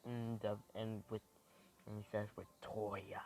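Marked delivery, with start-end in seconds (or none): 2.4-3.2 half-whispered devilish threat; understated devilish menace. Acted. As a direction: list the names like a devil's warning. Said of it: "in a devilish voice".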